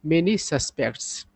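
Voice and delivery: very slow, word by word English; slow example sentence. Shown as a demonstration. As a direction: read it out slowly for learners. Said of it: "sentence में इसका use देखिए".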